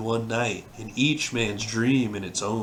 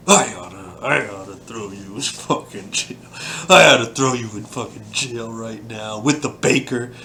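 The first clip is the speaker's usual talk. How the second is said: cartoonish fury; 3 dB louder than usual. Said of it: "He's like".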